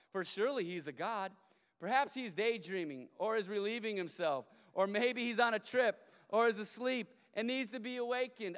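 loud mock speculation, playfully taunting; scoffing. Elijah taunts prophets about their sleeping god, mocking. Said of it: "he scoffed".

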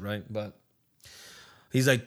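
ordinary talk, nothing marked

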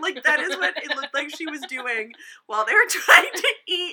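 talking through laughter; laughing. Real, not acted. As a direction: laugh between the words. Laughing while explaining.

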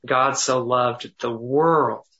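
slow, "world" leaned on with a falling end; stress on world. Shown as a demonstration. Pastor demonstrating meditation, stress on "world". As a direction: land on "world" in "God so loved the world". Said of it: "I'm gonna skip the word the".

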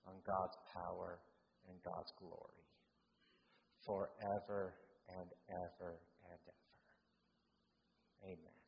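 measured, softening benediction; solemn closing prayer. Real, not acted. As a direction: wind down reverently toward the amen.

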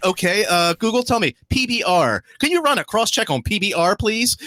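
high-pitched retold voice request; querying Google. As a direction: raise the pitch, ask the phone politely.

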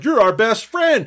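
hammed-up pally welcome; mock gushing. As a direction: imitate overfriendly bikers, stretching it out. Bikers voiced as gushing pals.

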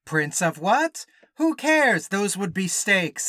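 lightly put-on Italian prince, drawn-out and loud; a slow, showy hint of a princely character; Italian prince bit. Opening bit posing as Italian prince.

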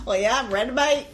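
light laughing Aussie "mate"; Australian accent. Pretend. Co-host slips into a light Australian accent, laughing. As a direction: drag it out like a cheery Australian. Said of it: "Why do I keep going Australian?".

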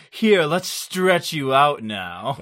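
exercise-tape instructor. Acted. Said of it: "It's partnered exercise tapes".

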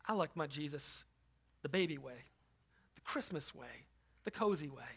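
a hint of cozy piety, softly; mock cozy voice. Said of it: "we hear king and we go".

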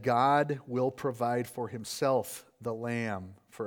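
slow, deliberate, reverent; solemn assurance. Acted. Abraham reassuring his son: slow, solemn assurance. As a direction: let each word land slowly like a vow.

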